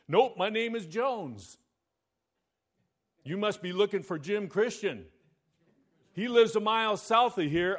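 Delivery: a loud, bored country farmer; disinterested farmer. Acted. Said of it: "With the same amount of disinterest".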